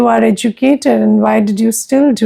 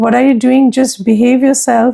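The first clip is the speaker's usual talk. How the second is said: ordinary talk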